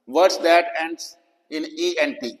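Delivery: slow, deliberate reading of a rule heading. Shown as a demonstration. Teacher announcing a spelling rule slowly.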